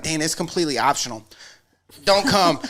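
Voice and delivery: quick dismissive. Retold or imitated. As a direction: rattle it off dismissively. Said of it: "'Cause you was like".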